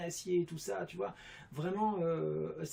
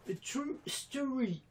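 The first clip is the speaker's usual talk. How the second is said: put-on voice; 9 semitones higher, much slower than usual. English aside, put-on voice.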